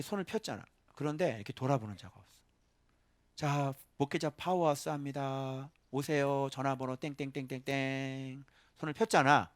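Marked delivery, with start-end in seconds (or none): 3.4-8.4 mock ad. Mock ad for a pastors' event.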